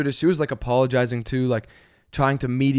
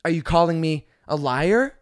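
entitled passenger cutting off the stewardess; rapid no's; much faster than usual. Retold or imitated. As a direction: refuse in a furious rush. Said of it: "She goes".

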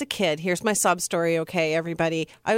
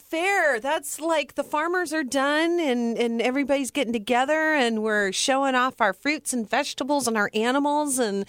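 escalating comedy rant; 6 semitones higher than usual. Acted. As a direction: rant with rising gusto about the fair. Mock outrage about the fair.

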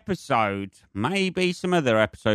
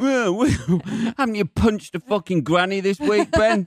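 outraged listener; 8 semitones higher than usual. Retold or imitated. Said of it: "People out there going".

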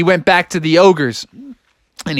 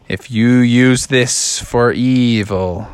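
warning; 4 semitones lower, slower than usual. Acted. Gummies warn Froggy.

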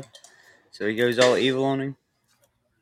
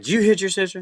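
higher-pitched mock parent question; 7 semitones higher than usual. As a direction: lightly play a parent checking up on a kid. Acted parent questioning a child.

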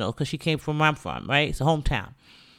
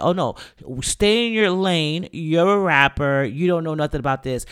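dismissive mock quote; 3 dB louder than usual. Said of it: "insult her intelligence and say".

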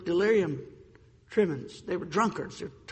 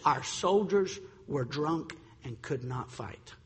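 slow, lower, solemn quoted address; radio address quote; 4 semitones lower, 4 dB quieter, slower than usual. Retold or imitated. French war hero explaining the fall of France to the nation, slow solemn address. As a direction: deliver it slowly and low, as a grave announcement. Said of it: "here's what he said in that radio address".

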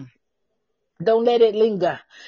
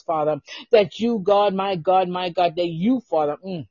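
lower, murmured intercession to God; prayer; 3 semitones lower than usual. Real, not acted. Host praying over podcast listeners, lower earnest prayer voice.

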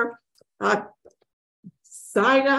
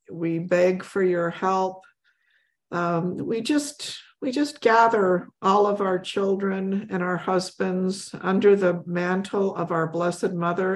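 prayer; 2 semitones lower than usual. Acted. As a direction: pray it reverently. Leads closing prayer.

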